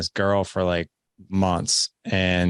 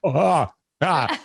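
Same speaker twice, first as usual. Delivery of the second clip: mock dismay; 5 semitones higher, much slower than usual. His own retold reaction, dismayed.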